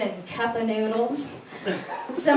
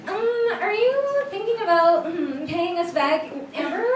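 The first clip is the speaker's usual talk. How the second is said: mock debt collector; 5 semitones higher than usual. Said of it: "they were like".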